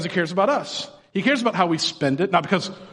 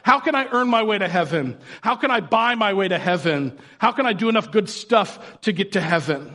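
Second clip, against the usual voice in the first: patronizing; 2 semitones higher than usual. Retold or imitated. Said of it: "This guy is being patronizing".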